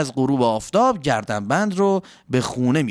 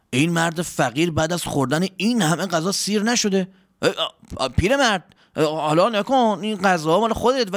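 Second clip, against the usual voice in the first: higher-pitched servant, baffled then obliging; a touch of surprise, higher than the narration; lightly voiced servant; 5 semitones higher than usual. Servant offers the hungry old man food and clothes, lightly acted surprise.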